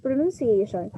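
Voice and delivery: Pronunciation as pro-nun-see-AY-shun; careful teacher's demo of Pronunciation, "nun" in the middle; correct NUN vowel. Shown as a demonstration. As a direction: say Pronunciation with NUN, never NOUN. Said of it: "That's how you pronounce pronunciation".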